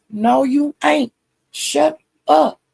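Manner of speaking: high, slow dismissive retort; mock shut-down. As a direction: cut him off, pitched high. Retold argument, the other side answers.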